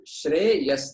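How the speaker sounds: Shreyas sounded as Shre-yas; syllable demonstration. Shown as a demonstration. Teacher showing a short name, Shreyas split as Shre-yas. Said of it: "That's only two syllables".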